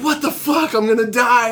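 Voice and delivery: high, loud mock-terrified yelp; panicked cry. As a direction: act out thinking you're about to die in the runaway car. Retold panic, car speeding.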